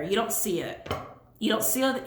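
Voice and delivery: thick-tongued, swollen tongue speech; with a sore tongue. Real, not acted. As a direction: talk around a swollen tongue. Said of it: "I feel like my tongue is swollen".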